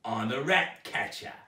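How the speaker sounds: a hint of a sly creepy man; Bert, creepy rat catcher. A narrator's reading. Bert smugly claiming his trade to Zoe, lightly voiced creep. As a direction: drop it slyly. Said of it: "said Bert".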